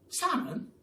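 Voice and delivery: high, thrilled squeal; excited screech. Acted. The pelican hears about salmon, squealing excitedly. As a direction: squeal it with delight. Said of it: "screeched the Pelican".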